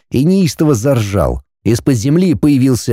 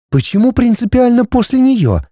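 put-on high, indignant young woman; girl's voice; 13 semitones higher than usual. A narrator's reading. Heroine questioning the dragon, high and puzzled.

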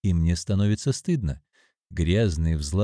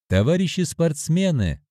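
loud announcement; 7 semitones higher than usual. Acted. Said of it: "громко провозглашаю я".

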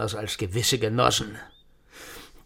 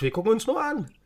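agitated; 12 semitones higher than usual. Acted. Drunk ranting about the boss.

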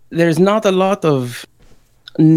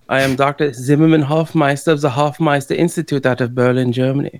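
put-on German accent. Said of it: "you may notice my accent slipping".

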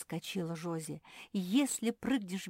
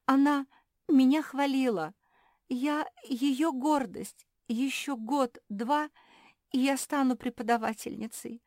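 tearful; 7 semitones higher, 6 dB louder than usual. Acted. Hortense grieving over Luka's praise, tearful lament. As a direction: pour out the betrayal crying. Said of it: "заплакала".

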